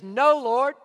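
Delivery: preacher acting Peter refusing God; stubborn Peter. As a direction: dig in your heels as Peter. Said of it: "And he says".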